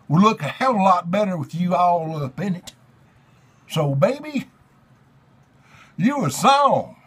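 overwrought theatrical reading of lyrics; hammy stage actor. Pretend. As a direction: declaim it like a ham Shakespearean. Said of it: "Dramatic Readings".

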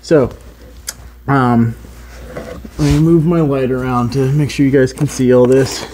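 talking while lying on your back; speaking from flat under a car. Real, not acted. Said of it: "Bear with me while I get underneath here".

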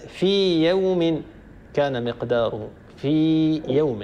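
في يوم said slowly, the long ya kept apart from the next ya; slow recited example. Shown as a demonstration. Teacher showing students no merging after a long vowel. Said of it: "هي ياء مدية".

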